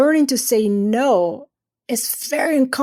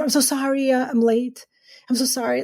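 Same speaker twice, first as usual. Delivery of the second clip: apologetic; 3 semitones higher than usual. Retold or imitated. Late to an exam, mildly over-apologetic. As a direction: shrink a little as you apologize. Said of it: "you come into an exam".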